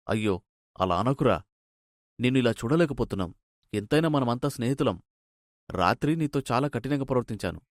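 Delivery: lightly voiced forgiving friend; repentant friend.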